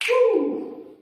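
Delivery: very high, loud whoop of triumph; excited cheer. Real, not acted. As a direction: whoop like you just won. Cheers after nailing pronunciation.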